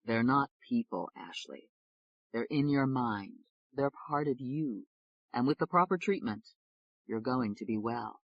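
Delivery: slow, soft and reassuring; calm her gently, slowly; quietly. Acted. David quietly reassuring frightened Ashley. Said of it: "David said quietly".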